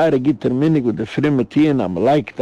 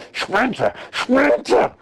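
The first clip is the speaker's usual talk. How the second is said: calling her name twice, the second much higher; desperate calling; 10 semitones higher than usual. Acted. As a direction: wail for Sprinze, rising in despair. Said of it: "hört er, wie einer schreit". (verzweifeltes Rufen, immer höher)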